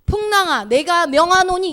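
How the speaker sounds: high, loud, slow overblown decree; theatrical storm-rebuking voice; pompous mock command. Shown as a demonstration. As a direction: ham up a grand proclamation. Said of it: "이렇게 하지 않습니다".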